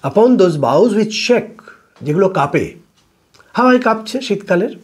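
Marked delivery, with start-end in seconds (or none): 0.0-1.6 slow, measured verse reading; poem recitation. Shown as a demonstration. Teacher reading a Shakespeare sonnet to students, slow recitation. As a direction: read the line out slowly, word by word. Rereads part of sonnet line.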